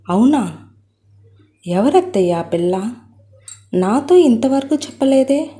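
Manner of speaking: a touch of surprise, rising on the last question; mildly taken aback, asking his aunt; surprised. Acted. Son-in-law surprised by his mother-in-law's news, mild surprise. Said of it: "అంటూ ఆశ్చర్యంగా అన్నాడు కృష్ణ".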